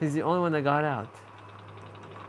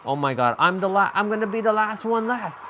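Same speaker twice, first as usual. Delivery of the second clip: panicking gamer; 5 semitones higher, 3 dB louder than usual. Real, not acted. Last survivor left, about to die.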